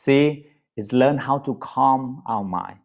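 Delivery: ordinary delivery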